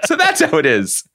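high, mocking sing-song realization; Principal Rooney. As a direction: play a smug school principal catching on. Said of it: "Just being like".

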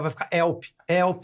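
"Help" without H, like "élpi"; dropped H. Retold or imitated. Joking how locals would cry for rescue, "Help" without its H. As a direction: say "Help" starting straight on the vowel. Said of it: "ninguém vai falar Hell".

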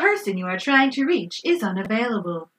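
lightly voiced automated operator; a hint of answering-service voice; imitated phone recording. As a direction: mimic a recorded unavailable-number announcement.

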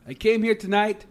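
hammed-up boxer speech to the crowd; Stallone impression. A host attempts Rocky Balboa's post-fight speech, admitting he can't do Stallone. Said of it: "I can't do a Stallone voice".

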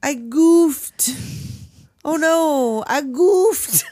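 flustered mock voice. Hosts mimicking a flustered mother: mock goofy wail. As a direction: play the clueless one who broke it.

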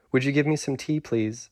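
lightly voiced gentle skull; a hint of a polite talking skull. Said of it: "said the skull".

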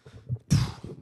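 long voiceless puff of breath; exasperated sigh. Retold or imitated. Reacting after the conversation ended, exasperated sigh. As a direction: let out a fed-up exhale.

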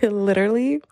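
lightly put-on British accent. Shown as a demonstration. Podcaster shows her only British words, fake British accent. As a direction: try a fake British accent, slightly hammy. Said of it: "could say in a British accent".

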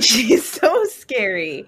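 slow, drawn-out mock spook; slow drawl. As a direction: stretch it out. Echo drawl.

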